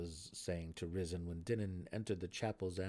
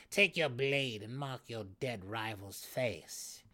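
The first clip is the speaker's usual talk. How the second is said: slow, firm order; commanding; 4 semitones higher, 5 dB louder, slower than usual. A narrator's reading. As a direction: command it coldly. Malice ordering.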